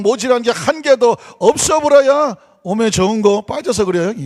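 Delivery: hammed-up Jeolla dialect reading. Shown as a demonstration. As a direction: read scripture in a broad, folksy Jeolla accent. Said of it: "먼저 전라도 사투리로 시편 이십삼 편을".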